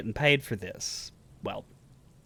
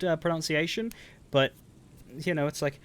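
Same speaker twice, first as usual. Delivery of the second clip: normal talking voice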